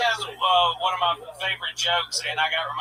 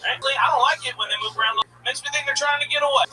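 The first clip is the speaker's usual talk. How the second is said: higher, deadpan creepy tone; a creepy punchline, voiced higher; mock creepy; 6 semitones higher than usual. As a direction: play the sinister punchline straight. Mock-creepy joke voice, raised.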